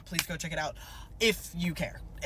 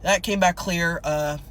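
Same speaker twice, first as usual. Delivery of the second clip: low throat-clearing patrol officer voice; cop impression; 3 semitones lower than usual. Shown as a demonstration. Officer returns with license, cop impression. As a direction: play a traffic cop, starting low. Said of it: "my cop impression".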